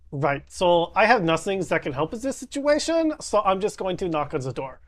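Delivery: lightly voiced Valley Girl. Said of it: "sound like a Valley Girl".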